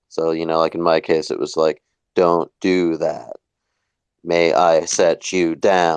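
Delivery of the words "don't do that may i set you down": slow, robotic, each word separated and enunciated. Describing how they spoke back then: distinct pause between each word. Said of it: "a distinct pause between each word or perhaps each syllable".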